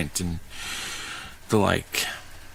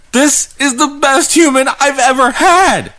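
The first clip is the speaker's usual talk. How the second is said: creepy friend voice; 6 dB louder than usual. Acted. Friend's creepy line at dinner.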